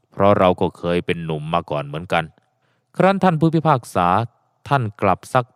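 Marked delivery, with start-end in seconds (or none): 0.1-2.2 put-on old man's voice. Old man speaks to old friend.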